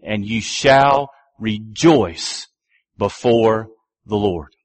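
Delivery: "rejoice" drawn out low and slow; slow solemn reading. Retold or imitated. Preacher quoting Moses, slow and low. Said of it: "saying once again".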